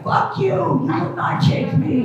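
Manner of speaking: hammed-up tough guy in the shower; macho war cry. Men fighting the shower water, hammed-up yell. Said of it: "they're like".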